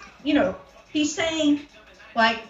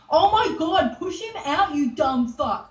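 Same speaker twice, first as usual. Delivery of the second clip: high-pitched mock yell without much volume; retold screaming; 5 semitones higher than usual. Retelling the partner screaming at the woman in labour, mock screaming. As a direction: imitate his exasperated scream, pitched up. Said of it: "He's, like, screaming".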